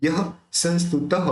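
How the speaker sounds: संस्तुतः ending in a sounded "taha"; visarga as ha. Shown as a demonstration. Teacher showing visarga, संस्तुतः said as "sanstutaha". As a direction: finish संस्तुतः with a clear ha. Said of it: "ह निकालेंगे".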